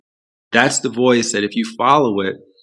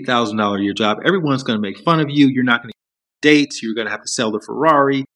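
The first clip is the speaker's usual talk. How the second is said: the ego mocking the dream job in disbelief; panicked ego; 2 semitones higher than usual. Ego scolding you for quitting the big job, scoffing and panicked. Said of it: "And so the ego says".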